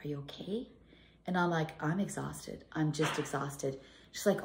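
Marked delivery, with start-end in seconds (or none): 0.0-0.7 quiet concern. Retold or imitated. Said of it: "She walks in, she's like". 1.8-3.8 slow, worn-out and weary; exhausted. Retold or imitated. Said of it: "I'm tired".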